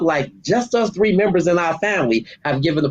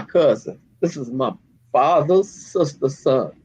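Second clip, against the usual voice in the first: emotional voice; slower than usual. Real, not acted. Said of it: "you hear this in my voice right now".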